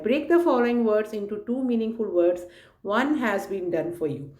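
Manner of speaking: very slow, deliberate reading of the task; slow instruction read. Acted. Teacher reading worksheet instructions to children, very slow. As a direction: read each word out slowly for the class.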